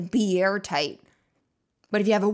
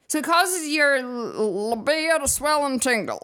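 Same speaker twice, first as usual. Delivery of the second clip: lightly hammed-up seductive catalogue voice; that put-on voice; 4 semitones higher than usual. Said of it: "I can't say that without that voice on".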